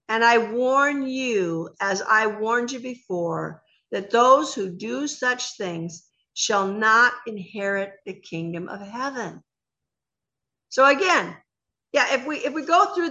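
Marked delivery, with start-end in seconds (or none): 0.1-9.4 slow, grave scripture warning; solemn warning read. Acted. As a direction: read it slowly like a final warning. Closing of scripture reading.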